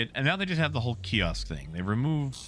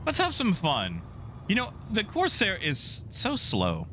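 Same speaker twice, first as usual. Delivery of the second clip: higher, teasing singsong taunt; mocking singsong; 7 semitones higher than usual. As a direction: tease him like a bully. Taunting enemy pilot.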